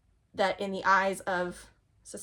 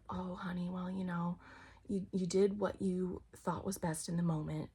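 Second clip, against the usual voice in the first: soothing reassurance; 5 dB quieter than usual. Retold or imitated. Grandparents' accepting reply.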